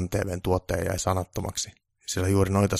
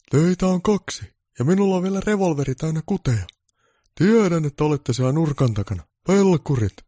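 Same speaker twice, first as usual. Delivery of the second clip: high, loud gamer Santa yelling at the screen; Santa roaring; 9 semitones higher, 6 dB louder than usual. Acted. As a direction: bark threats at enemies on TV. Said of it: "pukki karjui televisiolle".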